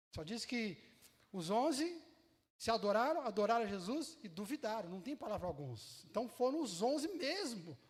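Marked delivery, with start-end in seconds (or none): none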